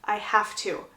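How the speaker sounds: understated tearful resignation with long pauses; near tears. Retold or imitated. Bride answering the man she loves, understated near tears. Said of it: "She's literally about to cry".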